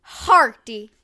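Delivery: loud growled pirate hearty; hammy pirate. Shown as a demonstration. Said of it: "You have to get the".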